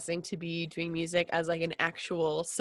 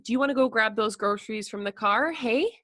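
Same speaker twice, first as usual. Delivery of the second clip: Canadian hey. Shown as a demonstration. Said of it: "So we'll say".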